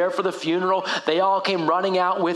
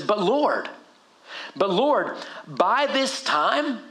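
acted hesitant plea with halting pauses; embarrassed, unsure; much slower than usual. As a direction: stall awkwardly before breaking bad news. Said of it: "maybe a little bit embarrassed, like, not sure".

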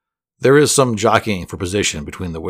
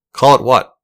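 mildly irritated, louder and higher; irritable; 5 semitones higher, 8 dB louder than usual. A narrator's reading. Wizard asked about the name of the place, irritable. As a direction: snap back with a touch of irritation. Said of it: "says the wizard irritably".

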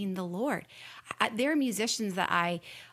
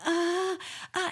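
reluctant hesitation; 9 semitones higher than usual. Retold or imitated. Hesitating, resisting God's call.

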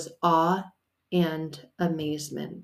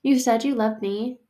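high, loud plea that settles down; begging God for more; pleading to God; 4 semitones higher, 3 dB louder than usual. Retold or imitated. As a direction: cry out to God, then calm. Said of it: "I'm like".

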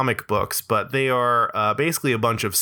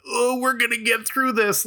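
mock sappy comfort; 11 semitones higher than usual. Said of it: "be like".

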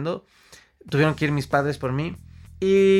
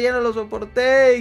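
higher and louder, near a cry; panic peaking; 8 semitones higher, 6 dB louder than usual. Retold or imitated. Retelling the peak of his panic attack, louder cry. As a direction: let the panic burst out on the repeat.

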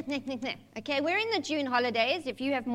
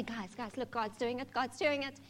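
quiet; 7 dB quieter than usual. Pretend. Imagined quiet pitch to church.

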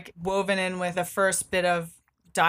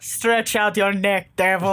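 Koschei voice. Acted. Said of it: "Loving this Koschei voice".

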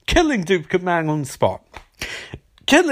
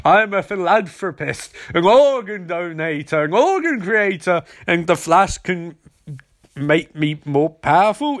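slow, lightly voiced cartoon villain gloating; a hint of a cackling evil billionaire; hammed-up villain; slower than usual. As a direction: play a mock supervillain monologue, drawn out. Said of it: "Simon Stagg's sort of like".

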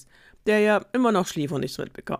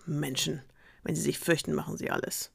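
contemptuous; 5 dB quieter than usual. Acted. Wolf scoffing at the frightened miller, quietly contemptuous. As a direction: sneer it to yourself. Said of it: "schnaubte verächtlich".

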